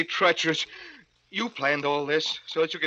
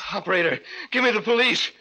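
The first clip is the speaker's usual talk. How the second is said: urgent demand; 4 semitones higher, faster than usual. Acted. Urgent call to the operator.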